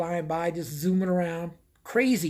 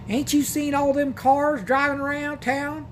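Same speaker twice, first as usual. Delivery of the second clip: lightly voiced country lady, higher and slow; motel desk lady; 8 semitones higher than usual. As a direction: drawl it out like a small-town clerk. Motel lady voiced in retold story.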